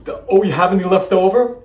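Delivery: hammed-up cutesy host question; cute cooking show host. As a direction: ask sweetly like a TV cook. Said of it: "what they say in the cooking shows to be cute".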